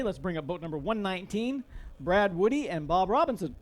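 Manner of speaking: talking through hiccups; catching a hiccup mid-sentence. Real, not acted. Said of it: "Sorry, I got the hiccups".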